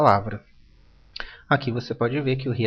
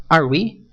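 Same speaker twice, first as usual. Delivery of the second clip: Are we? with a rising question tune; Are we? asked with a questioning rise; 2 semitones higher, 7 dB louder than usual. Shown as a demonstration. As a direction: lift it like a question. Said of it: "faço o tom da pergunta também".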